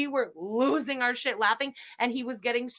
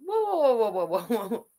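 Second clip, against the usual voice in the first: 1 shocked whoa. Real, not acted. Host halting the video, shocked whoa. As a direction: pull the video up short in disbelief. Stunned by cheese-only salad.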